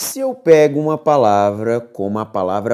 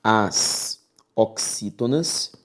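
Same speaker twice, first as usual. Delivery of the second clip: slow, spaced dictation of the rule; slow dictation for note-taking; much slower than usual. Shown as a demonstration. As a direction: dictate it slowly so students can write. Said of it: "dictating the rule".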